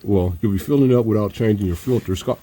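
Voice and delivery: muffled, talking through a mask; words dulled behind a face mask. Real, not acted. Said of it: "I got a mask on, so I sound the way I do today".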